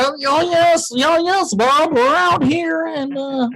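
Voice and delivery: high, slow TV reporter voice; newscaster voice. Retold or imitated. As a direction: ham up a field reporter. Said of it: "it's always funny".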